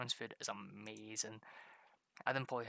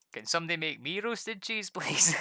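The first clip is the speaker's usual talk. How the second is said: mock whiny plea; 5 semitones higher, 9 dB louder than usual. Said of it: "be like".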